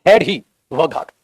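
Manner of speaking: each word drawn out, "Had" stressed; very slow dictation. Shown as a demonstration. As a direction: dictate "Had he worked hard" slowly, word by word. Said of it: "इसमें inversion लगा दो".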